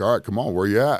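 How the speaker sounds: acted-out screaming. Retelling screaming at the enemy during long patrols: imitating own past screaming. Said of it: "you just start screaming at 'em".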